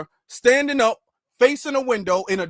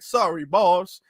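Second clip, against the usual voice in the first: lightly voiced apologetic henchman; a hint of a weird henchman accent; cartoon henchman; 2 semitones lower, slower than usual. Beaten-up henchman apologizing to the boss, mock cartoon accent. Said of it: "like, a crazy, weird accent".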